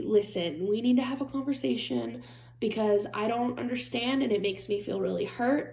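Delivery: softly spoken, careful appeal; delicate, therapist-like. Shown as a demonstration. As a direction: gently open a difficult conversation without blame. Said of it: "that's how I would talk about it".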